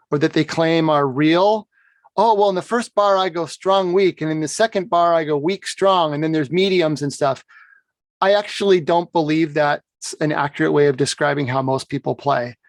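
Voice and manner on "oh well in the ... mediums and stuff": a light, lilting parody of an overly precise piper; mocking imitation. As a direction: gently send up the fussy "strong, weak" scheme. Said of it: "expression schemes that they claim to use".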